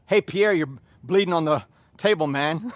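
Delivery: laughing through the taunt; amused mock tease, chuckling; laughing quip.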